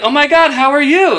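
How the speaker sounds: high, gushing imitation of her; imitating a drunk acquaintance's high greeting; mock gushing greeting. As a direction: squeal it like an over-friendly acquaintance. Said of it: "sees me like".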